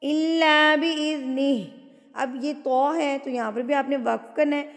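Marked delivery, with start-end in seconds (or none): 0.0-1.5 slow tajweed recitation, long vowels; Quran recitation. Shown as a demonstration. Teacher modelling the verse for students, slow measured recitation. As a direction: recite with measured, held syllables.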